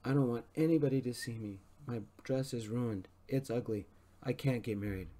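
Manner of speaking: high-pitched wail of complaint; high-pitched shriek. A narrator's reading. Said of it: "A high-pitched shriek echoed through the hall".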